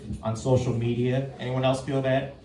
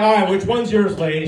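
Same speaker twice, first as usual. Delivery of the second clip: louder, pushy comeback to the mom; irritated challenge; 2 semitones higher, 6 dB louder than usual. Retold or imitated. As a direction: fire it back at her, annoyed. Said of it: "So, I'm like".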